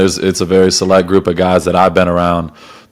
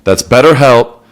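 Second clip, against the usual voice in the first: measured, scripted podcast ad read; host-read promo with deliberate pauses; sponsor ad read. Real, not acted. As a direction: read the sponsor copy clearly, phrase by phrase. Reads a sponsor message.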